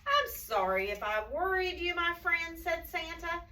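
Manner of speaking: lightly voiced apologetic Santa; gentle storybook dialogue, lilting; Santa in storytelling voice. A narrator's reading. Santa apologizing to his animal friends, lightly acted. Reads Santa's words to children.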